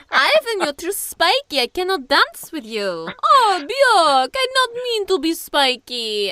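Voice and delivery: high, loud mock European child voice, broken English; vague European accent. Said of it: "vaguely European sounding accents".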